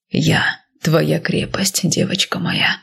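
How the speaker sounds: slow tender whisper; hushed and slow, soothing his frightened wife. Acted.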